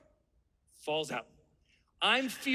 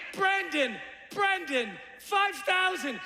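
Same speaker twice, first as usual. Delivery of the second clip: mock yell; 4 semitones higher, slower than usual. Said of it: "He's screaming".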